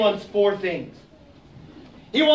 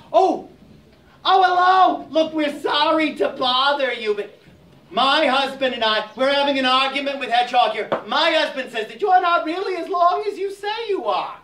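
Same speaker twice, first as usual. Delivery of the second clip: flustered Aso; 5 semitones higher than usual. Acted. Aso greets the snake.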